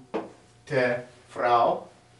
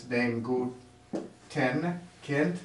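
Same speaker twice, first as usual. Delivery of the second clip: slow model phrase; 5 dB quieter, much slower than usual. Shown as a demonstration. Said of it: "you give something to the good child".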